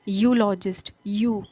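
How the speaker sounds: "यूलॉजिस्ट" opening on a y glide, then "यू" alone; pronunciation demo. Shown as a demonstration. Teacher shows how to pronounce it, opening sound isolated. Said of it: "इसको pronounce कैसे करते हैं".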